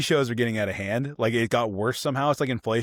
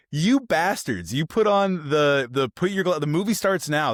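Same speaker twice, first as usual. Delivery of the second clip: higher, exasperated fake fury at the cinema; hammed-up rant at the screen; mock angry outburst; mock outrage; 5 semitones higher than usual.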